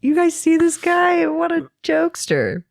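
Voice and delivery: very high put-on cartoonish voice; Grimace. Grimace brushes off the governor to the crowd, high silly voice. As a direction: play it high and silly, like a mascot. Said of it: "So he's like".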